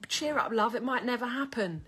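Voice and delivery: lightly voiced workman calling out; mock workman. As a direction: tease her like a lad on a building site. Workmen telling her to cheer up.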